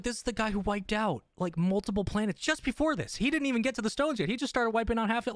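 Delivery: high, fast incredulous rant. Retold or imitated. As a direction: rant in disbelief about the villain. Mock exasperated rant about Thanos.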